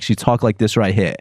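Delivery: lightly imitated Jersey girl's accent; thick Jersey accent. Describing a patient to a friend, imitated Jersey accent. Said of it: "a really thick Jersey accent".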